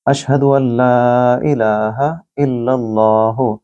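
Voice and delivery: slow, drawn-out testimony; slow recitation. Shown as a demonstration. Teacher demonstrating the testimony, slow recitation. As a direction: recite it calmly, vowels held. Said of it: "ये हा जो है".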